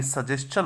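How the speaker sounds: सजेशन said "sa-JES-chan"; "ch" sound. Shown as a demonstration. Teacher gives a similar word, सजेशन with a "ch" sound. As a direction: end सजेशन in "s-chan", not "shan". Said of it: "इसमें भी चे की sound होती है".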